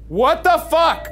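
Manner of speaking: high, loud, drawn-out alarm; real jolt of fright; startled yell. Real, not acted. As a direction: react to a sudden voice in shock.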